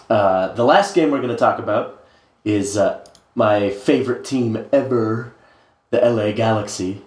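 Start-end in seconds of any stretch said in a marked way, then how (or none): 3.3-7.0 deadpan sarcastic praise; understated but heavy sarcasm; dripping sarcasm. Real, not acted. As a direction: say it as dry, mock devotion. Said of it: "that was dripping sarcasm there".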